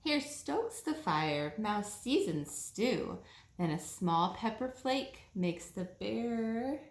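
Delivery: slow, sing-song read-aloud voice; storybook reading. A narrator's reading. Reading a bedtime story to children, slow and sing-song. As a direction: read it slowly like a bedtime picture book.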